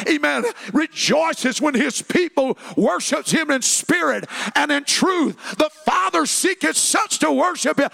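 climbing into a loud, high preacher's cry; preaching at full force. Acted. Pastor rallying the congregation, preaching at full force. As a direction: preach it out, building to a shout.

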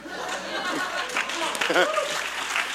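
airy, high rising laugh; quiet wheezing chuckle; breathless laugh. Real, not acted. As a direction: laugh at your own joke. Preacher laughs at his own joke.

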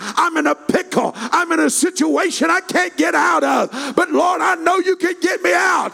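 loud, high, driving revival cadence; full-force preaching. Real, not acted. Preacher urging someone to cry for help, shouted in cadence. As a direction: pile up the pleas to a long shouted peak.

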